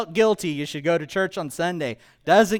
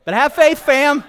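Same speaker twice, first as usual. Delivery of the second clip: higher, louder, laughing hype call to the fam; hammed-up hip Jesus, louder and higher; slang Jesus hype; 6 semitones higher, 9 dB louder than usual. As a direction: pump the kids up, youth-pastor style. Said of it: "So Jesus is like".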